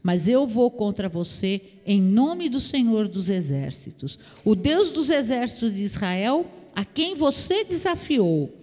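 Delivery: firm scripture declaration, slowing at the close; word of power. Acted. David answers the Philistine who challenged him, a firm declaration. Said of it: "liberou pra ele uma palavra de poder".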